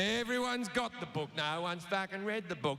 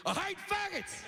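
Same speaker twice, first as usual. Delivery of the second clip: higher cut-up soundbite voice; mimicking an edited quote; mock clip; 12 semitones higher than usual.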